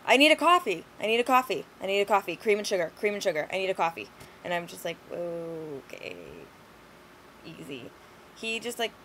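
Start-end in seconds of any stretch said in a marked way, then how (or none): 0.1-4.1 loud insistent chant that fades down; repeated mock yell. Customer repeating his coffee order, loud yell fading out. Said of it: "kept yelling in my face". 5.1-7.9 soft, quiet and low, soothing; calming. Retold or imitated. Barista calming the yelling man, soft soothing hush.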